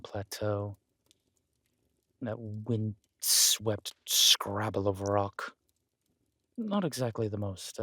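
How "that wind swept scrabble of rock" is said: slow, hushed sneer at the land; a slow whispered scoff; contemptuous whisper. Acted. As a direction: let the disdain drip out slowly. Sneering at the gifted plateau.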